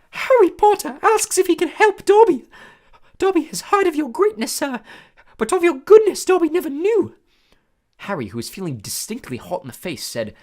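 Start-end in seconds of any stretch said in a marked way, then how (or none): 0.1-7.2 high, loud squeaky elf voice; a small eager servant creature, awed; squeaky house elf. A narrator's reading. House elf greeting Harry, high squeaky and awed. Dobby voice.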